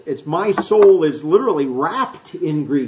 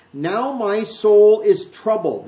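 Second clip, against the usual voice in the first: voicing Jesus; 6 semitones higher, 5 dB louder, much slower than usual. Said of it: "And Jesus says".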